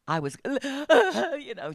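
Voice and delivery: choked-up laugh while telling it; laughing through tears. Real, not acted. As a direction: break into a tearful laugh at the memory. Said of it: "just crying".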